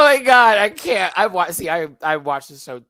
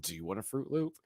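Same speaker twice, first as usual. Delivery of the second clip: Toucan Sam voice; 3 semitones lower, 9 dB quieter, faster than usual. Retold or imitated. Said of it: "very Toucan".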